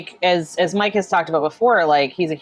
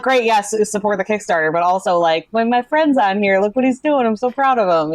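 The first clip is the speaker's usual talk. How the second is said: higher, proud gushing; excited and proud; 4 semitones higher than usual. Retold or imitated. Fan cheering on a friend's Kickstarter, excited and proud. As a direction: brag happily about a friend. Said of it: "Like, I get so excited".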